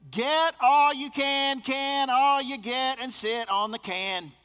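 slow and loud, each phrase drawn out; slow, weighty quote of the old pastor's motto; slow quoted saying. Retold or imitated. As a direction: spell out the pastor's motto slowly. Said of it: "Here's the way he said it".

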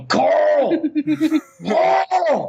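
imitating an English actor's Southern accent, high and drawn-out calling Carl. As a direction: call out Carl across the house in a put-on Southern accent. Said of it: "that's an English guy doing a Southern accent".

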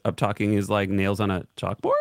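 CHALKBOARD lifted like a question; mock uptalk. Reading a viewer's complaint, mock uptalk rising on CHALKBOARD. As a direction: end the statement rising on CHALKBOARD.

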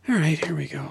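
hushed whispered aside. Acted. Friend eagerly whispering as the game begins. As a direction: breathe it out under your breath. Aside while the caddy is summoned.

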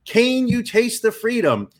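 booming radio announcer read. Acted. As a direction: sell it like a radio spot. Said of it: "I'm gonna put my radio voice on".

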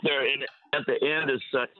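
breaking-up cell call; choppy phone connection; bad phone line. Real, not acted. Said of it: "You're, you're breaking up a little bit".

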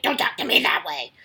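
nasty voice back. Retold or imitated. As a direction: snap it back like an irritated mom. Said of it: "I use a nasty voice back to them".

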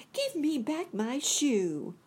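put-on high, slow, angry little girl; angry Dorothy. A narrator's reading. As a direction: demand it back, upset child. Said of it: "grew angry and said to the witch".

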